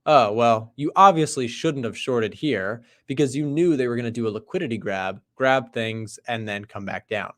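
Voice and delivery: mildly condescending know-it-all trader. Retold or imitated. Condescending trader tells another they obviously shouldn't have shorted, mildly condescending. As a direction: imitate a smug trader lecturing in hindsight. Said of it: "a super condescending trader would say".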